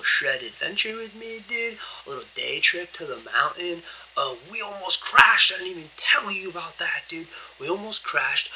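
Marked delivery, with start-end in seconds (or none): 5.5-7.3 hushed unvoiced whisper. Real, not acted. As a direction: whisper so the roommate sleeps. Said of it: "I gotta be a little bit quiet".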